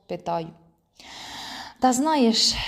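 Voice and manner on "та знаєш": higher, drawn-out hesitant answer; mildly bewildered, searching for words; at a loss. A narrator's reading. Friend answering about the lost pegs, at a loss. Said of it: "каже розгублено".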